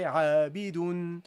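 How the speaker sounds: عابد slowly, ending -dun; recited Arabic. Shown as a demonstration. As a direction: stretch عابد as عابدُن. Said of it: "You would say".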